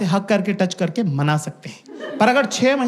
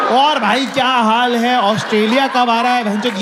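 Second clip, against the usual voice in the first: louder, high hearty hello; mock hearty friend greeting; 3 semitones higher, 4 dB louder than usual. Comic mimics long-lost friend calling at wrong moment. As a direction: boom out a buddy greeting.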